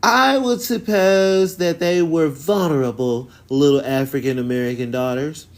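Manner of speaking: high, prim, hammed-up historian voice; mocking the documentary lady. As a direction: parody a pompous expert making it up as she goes. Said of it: "this crazy Y T lady".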